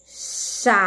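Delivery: "Chale" as CHAAA, long pause, LE; syllable by syllable. Shown as a demonstration. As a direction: slowly break "Chale" into two syllables. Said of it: "fazer a separação silábica da palavra chale".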